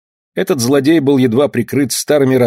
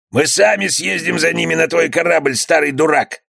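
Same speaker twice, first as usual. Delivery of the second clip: insulting bandit; 6 semitones higher than usual. Acted.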